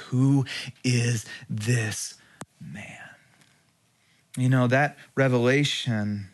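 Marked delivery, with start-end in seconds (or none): 0.1-3.1 slow, hushed and wondering; awed fearful question. Retold or imitated. Preacher voicing the frightened disciples in the boat, slow and awed. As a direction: let the question hang in fear.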